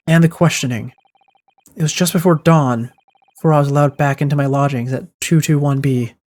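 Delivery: even, lightly voiced narration read; a hint of a storyteller reading aloud; story narration. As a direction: tell the night's events as the narrator. Reads game narration.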